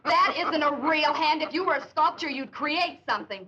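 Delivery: mocking, through laughter; laughing. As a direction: scoff while still laughing. Laughing at him.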